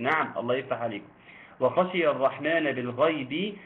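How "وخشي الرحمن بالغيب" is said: slow recitation. Shown as a demonstration. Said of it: "حكم الراء هنا إيه؟".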